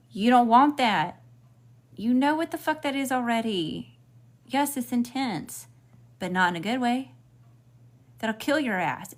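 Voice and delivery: emphatic warning. Real, not acted. Warning about chaotic relationships.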